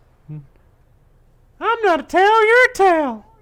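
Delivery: very high, slow, swooping, sing-song cartoon voice. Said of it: "that is Tally from South Park".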